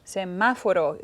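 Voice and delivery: "Semáforo" with the weight on "má"; stress on MA. Shown as a demonstration. Student showing where the stress is, stress on MA. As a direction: lean on the second syllable of "Semáforo". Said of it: "The stress is on ma".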